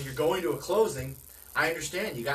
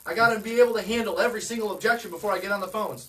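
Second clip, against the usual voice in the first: mock anxious agent, pitched higher and louder; eager agent; 6 semitones higher, 4 dB louder than usual. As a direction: play the overeager new agent cramming scripts. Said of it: "for those of you who are like".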